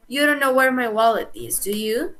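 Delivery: tag question with "do you?" lifting at the end; statement, then "do you?" rising as a real question. Shown as a demonstration. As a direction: raise the pitch on "do you?" as a genuine question. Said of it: "Ahí sí es una pregunta como tal".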